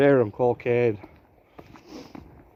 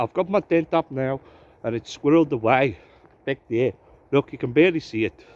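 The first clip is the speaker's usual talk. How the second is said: a vlogger's put-on South African accent; breezy mock South African accent throughout. Vlogger greeting viewers from the woods, in a put-on South African accent. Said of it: "don't ask me why I'm doing a South African accent".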